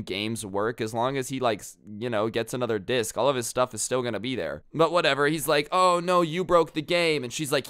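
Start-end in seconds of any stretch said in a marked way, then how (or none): 5.7-7.2 higher, a bit louder lighter mock wail; a toned-down, sarcastic oh no; mild mock despair. Boyfriend repeats mock lament.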